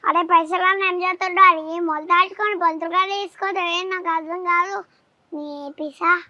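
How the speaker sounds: lightly acted film dialogue, rattled off; child reciting a movie line on request; DJ Tillu. Shown as a demonstration. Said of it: "dialogue చెప్పు ఒకటి".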